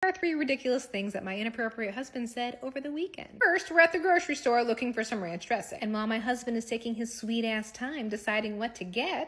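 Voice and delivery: ordinary talk, nothing marked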